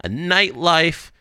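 upbeat sponsor read. Acted. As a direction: read it like a podcast ad. Host reads sponsor ads.

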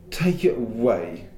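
put-on slow, sulky boy pushing it away. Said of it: "said Edmund sulkily".

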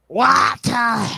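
high shrill call. Retold or imitated. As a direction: yell across the house. Imitating Big Bang Theory mom call.

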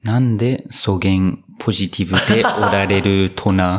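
slow, careful read in Hakata dialect. Acted. Interviewer reading out a question to the player, Hakata dialect. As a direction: read it out slowly with a Hakata lilt. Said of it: "博多弁ですね".

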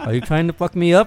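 British dog voice. Acted. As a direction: protest as an affronted British pet, half laughing. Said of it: "do it in his British voice".

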